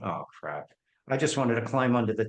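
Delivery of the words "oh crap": mortified. Retold or imitated. Realizing he insulted the director.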